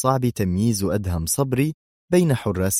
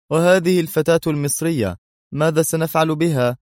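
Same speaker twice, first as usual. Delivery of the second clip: cold; 8 semitones higher, 4 dB louder than usual. A narrator's reading. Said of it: "بنفس البرود".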